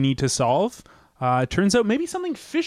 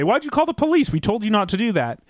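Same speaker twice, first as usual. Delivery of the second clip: the shade people scold him; mock police demand; 3 semitones higher, faster than usual. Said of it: "They say".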